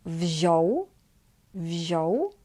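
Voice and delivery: wziął with ą said as plain o, "vzhow"; no nasal sound in wziął. Shown as a demonstration. Teacher models past tense example, ą as o. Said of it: "simply as".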